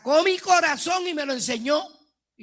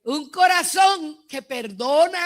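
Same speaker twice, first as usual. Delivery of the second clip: fervent preaching shout; 4 dB louder than usual. Real, not acted. Preacher proclaiming her new heart.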